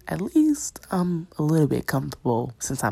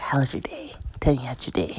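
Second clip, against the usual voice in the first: imitating his voice; 2 semitones lower, 4 dB quieter than usual. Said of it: "why do you talk like that".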